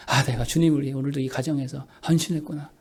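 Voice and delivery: soft, low voice of private reflection; quiet musing. Acted. Believer reflecting on serving the family, quiet musing. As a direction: murmur it gently to yourself. Acts a believer's contented inner thought.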